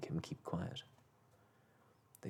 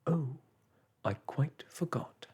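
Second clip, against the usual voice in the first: loud, higher trumpeting call; 6 semitones higher, 6 dB louder than usual. A narrator's reading. Woman upstairs calls out, loud and trumpeting. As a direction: boom it down the stairs. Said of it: "came a trumpeting voice from upstairs".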